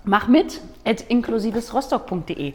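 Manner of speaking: langsam und deutlich angesagt. Real, not acted. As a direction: Adresse Wort für Wort ansagen. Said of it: "Das sagt niemand so schön wie du". (langsame Ansage)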